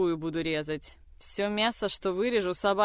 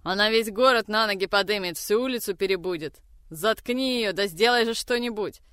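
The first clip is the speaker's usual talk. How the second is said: fast, loud frantic orders; urgent yelling; 2 semitones higher, 4 dB louder than usual. Acted. Mother urges her son, loud and fast. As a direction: rush it, panicking at the noise. Mother panics over screaming.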